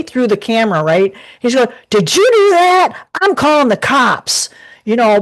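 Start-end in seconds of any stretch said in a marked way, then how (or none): 1.9-4.5 a retold angry yell, pitched up; ticked-off yell. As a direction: imitate the furious thief accusing her. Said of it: "the guy got really ticked off".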